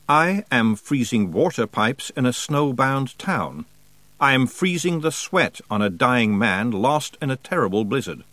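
lightly voiced cold spirit, calmly boasting; an understated, calm otherworldly voice; calm Wintersmith. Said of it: "said the Wintersmith very calmly".

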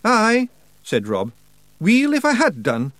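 high Scottish brogue; Scottish Feegle. A narrator's reading. Rob answers Daft Woolly, high Scottish brogue. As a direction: wee Feegle blustering.

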